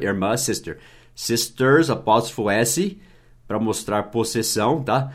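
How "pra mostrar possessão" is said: ordinary talk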